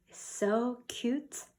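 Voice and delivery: soft, slow cooing over a cute kitten. Acted. Teacher cooing to children over a kitten picture, soft and slow. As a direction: coo it gently and slowly.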